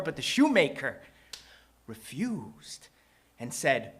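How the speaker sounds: theatrical rhyming storyteller; measured phrases with punched key words and dramatic pauses; story narration. A narrator's reading. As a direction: perform it like spoken-word storytelling.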